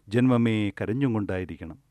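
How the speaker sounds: ordinary delivery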